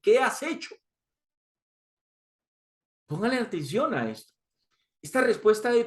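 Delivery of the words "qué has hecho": lightly voiced Pilato, higher and questioning; a hint of Pilato pressing his prisoner; Pilato's question. Pilato asks Jesus, a mild higher questioning voice.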